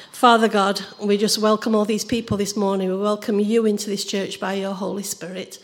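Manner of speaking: earnest, gentle church prayer. Acted. Opens the service in prayer.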